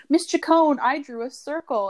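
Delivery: put-on high, loud kid calling out; imitated eager pupil. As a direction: call out to teacher like a proud child. Pupil interrupting teacher during testing.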